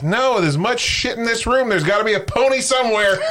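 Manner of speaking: put-on high, excited child voice; hammed-up squeaky punchline voice; gleeful little girl. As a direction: play a little girl, thrilled and insistent. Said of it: "there's a little girl in there".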